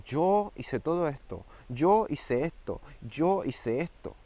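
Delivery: mock a proud man bragging before God; boastful self-justifying. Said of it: "vas a decir".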